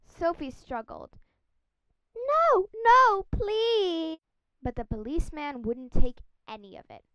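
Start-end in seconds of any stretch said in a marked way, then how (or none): 2.2-4.2 high, loud desperate pleas; frightened pleading. Acted. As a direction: beg in panic like a girl. Sophie struggles.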